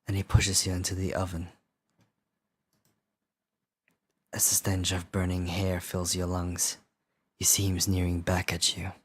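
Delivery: low, hushed horror narration; spooky storyteller, close to the mic; scary voice. Pretend. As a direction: recount the nightmare in an even, creepy tone. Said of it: "do a scary voice".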